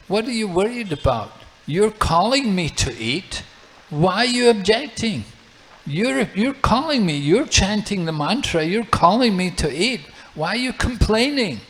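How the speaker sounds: put-on a little boy cheekily scolding a grown-up; child's teasing voice. Child Nimai scolds the Brahmana.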